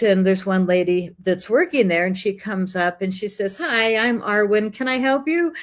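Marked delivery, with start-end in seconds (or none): 3.5-5.5 imitated shopkeeper greeting. Shop lady greets visiting customers, imitated helpful lilt. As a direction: imitate an overly helpful shop assistant, pitch rising.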